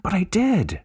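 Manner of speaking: high, insistent reply; a hint of playful insistence; insisting. A narrator's reading. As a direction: insist eagerly. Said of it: "she insisted".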